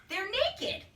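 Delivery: a squeaky high-pitched punchline; giggly punchline. A narrator's reading. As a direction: squeal it like a giggling little girl.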